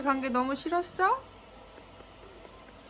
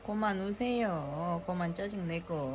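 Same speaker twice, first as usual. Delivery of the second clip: gentle soothing; 5 semitones lower, 5 dB quieter, slower than usual. Real, not acted. Mother to her crying baby, gently soothing.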